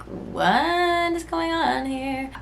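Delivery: high, slow, hushed and puzzled; a drawn-out high what-is-happening; baffled friend. Retold or imitated. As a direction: voice the friend's wary look. Friend's baffled look, voiced.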